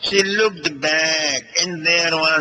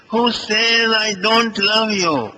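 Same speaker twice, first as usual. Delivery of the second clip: emphatic; 7 semitones higher than usual. Acted. Krishna to his tearful wife, emphatic. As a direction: insist hard that it isn't true. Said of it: "said emphatically".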